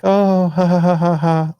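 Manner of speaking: high, loud mock nervous laugh; imitated awkward laugh. Dog owner laughing off her loose dog, mock laugh. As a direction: ham up the owner's embarrassed laugh.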